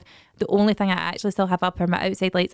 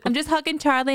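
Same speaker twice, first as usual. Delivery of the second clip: put-on child voice; 7 semitones higher than usual. Ella quoted.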